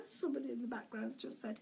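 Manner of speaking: real giggle breaking into a quick apology; laughing. Real, not acted. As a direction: apologise hurriedly through your laughter. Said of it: "I'm laughing again".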